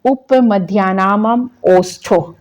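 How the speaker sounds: very slow recitation of the rule; teacher reciting a Sanskrit sutra. Shown as a demonstration. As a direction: chant it out slowly for the class. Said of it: "next आपका आ रहा है".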